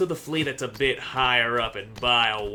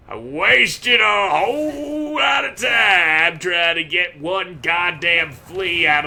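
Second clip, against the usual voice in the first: frustrated yell; 5 semitones higher, 6 dB louder than usual. Real, not acted. Frustrated rant at hidden fleas.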